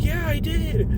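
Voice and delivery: high-pitched mock defiance; imitated defiant retort. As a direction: mimic the wife standing her ground. Wife retorts to maced man.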